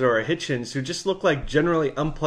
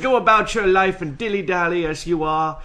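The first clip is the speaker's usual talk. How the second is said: slow, smug reassuring sign voice; mock-soothing smarmy tone; smarmy mock quote; 4 semitones higher than usual. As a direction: read it like a smarmy bus sign. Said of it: "smarmy fucking bus signs that say".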